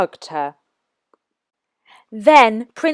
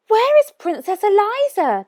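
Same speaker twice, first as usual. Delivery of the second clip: puzzled asking; 11 semitones higher than usual. A narrator's reading. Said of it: "they asked each other".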